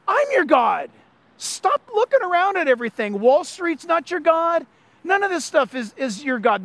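insistent, laying down the law; firm God putting his foot down. Retold or imitated. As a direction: speak as God drawing a firm line. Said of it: "like he's putting his foot down".

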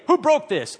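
loud, high demanding question; stern question. Retold or imitated. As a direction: demand it from the whole nursery. Teacher asking kids.

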